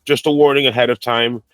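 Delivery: hoarse from a cold; rough sick voice, raspy throat; smoker's rasp. Real, not acted. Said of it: "suddenly I sound like a chain smoker".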